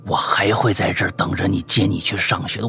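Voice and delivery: hammed-up solemn low-voiced declaration of love; persistent admirer. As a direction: declare it deep and deliberately, unhurried. Stranger's creepy confession acted out.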